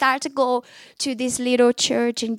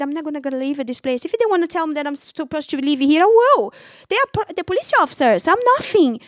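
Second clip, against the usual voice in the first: tearful plea; 3 semitones higher, 4 dB louder, faster than usual. Retold or imitated. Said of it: "I started crying, and say".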